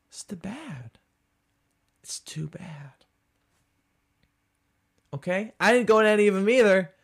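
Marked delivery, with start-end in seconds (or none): 0.1-1.0 breathy pitying whisper; mock whisper. Comic to a Boston bragger, a pitying mock whisper. 2.0-3.0 slower, drawn-out pitying whisper; slow mock whisper. Comic to a Boston bragger, a slow pitying whisper.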